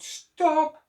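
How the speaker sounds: sudden high shout of Stop!. Acted. Hat seller shouting at the monkeys, high shout. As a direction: yell it high and sharp. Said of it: "Before the man could shout".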